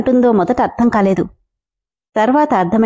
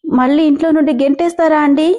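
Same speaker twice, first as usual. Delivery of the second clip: higher, a touch of tearful pleading; crying; 4 semitones higher than usual. Acted. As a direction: ask it half in tears. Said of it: "ఏడుస్తూ". (ఏడుస్తూ భయంగా అడగడం)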